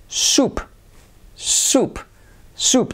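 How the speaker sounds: soup said high and breathy, long oo. Shown as a demonstration. Teacher models soup for Spanish learners, high-pitched. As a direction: lift soup up high, stretching the oo. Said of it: "y este es sopa".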